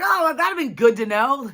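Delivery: high, slow, drawn-out comeback; mock indignant retort. Woman to church people warning too late, high mock indignation. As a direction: act out a pointed thanks-for-nothing.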